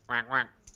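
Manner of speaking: throaty quacking duck noise; a quick hoarse duck quack; duck impression. Shown as a demonstration. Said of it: "It's my worst duck impression".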